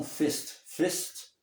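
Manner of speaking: "fist" with short vowel and no r; "fist", r dropped; sounds like fist. Retold or imitated. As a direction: copy the slip that turns first into "fist". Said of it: "Do jeito que ele pronunciou".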